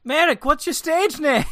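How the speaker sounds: high calling voice. Acted. Player calls out in character.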